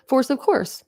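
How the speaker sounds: amused little sing-song; giggling rhyme. Real, not acted. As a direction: laugh at your own rhyme. Laughing at her own rhyme.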